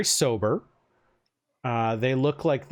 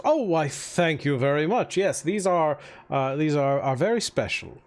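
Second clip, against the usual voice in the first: a hint of the mayor. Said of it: "the mayor says".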